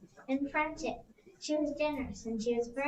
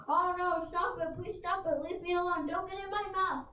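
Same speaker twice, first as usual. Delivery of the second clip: higher frightened begging; scared T. rex; 4 semitones higher than usual. Acted. T. rex fleeing Edna, pleading a bit higher. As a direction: beg like a chased bully.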